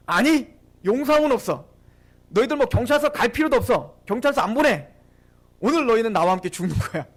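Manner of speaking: imitating a menacing site boss; forceful, no-mercy retelling; retold threat. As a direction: lay down a mock death threat. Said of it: "협박을 하는 겁니다".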